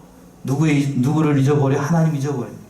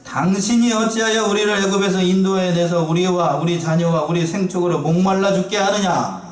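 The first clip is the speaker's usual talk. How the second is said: mildly raised, reproachful quoted voice; reproachful complaint; 3 semitones higher than usual. Retold or imitated. Thirsty Israelites blame Moses for leading them out, retold reproachful complaint. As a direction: voice the crowd's grievance as a retold accusation. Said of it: "모세를 원망하여 가로되".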